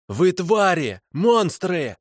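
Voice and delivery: высокий обвиняющий крик; бросает обвинение в лицо; обличающий вопль. Acted. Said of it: "обличающе завопил он". (пленник вопит, обвиняя нелюдей)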